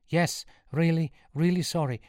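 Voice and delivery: high, pleading answer; earnest apology. A narrator's reading. Sean assuring the priest he is sorry, high and pleading.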